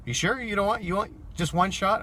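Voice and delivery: lightly mock her coaxing; coaxing drunk passenger. Drunk rider urging the driver to take a shot, light wheedling imitation.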